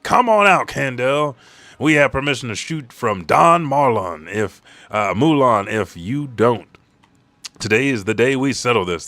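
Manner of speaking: loud, high thugs' shout; gangster yell. Retold or imitated. The gang shouting at Kendall to come out, loud and high. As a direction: bellow at the opera house. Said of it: "they yell".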